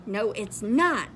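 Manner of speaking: mildly cross denial; a touch of annoyance; understated cross reply; a little cross. Acted. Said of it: "feeling a little cross".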